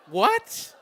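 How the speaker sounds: loud, high one-word yelp; stunned disbelief. Retold or imitated. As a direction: blurt it out, shocked by the rejection. Shocked reply to sudden rejection.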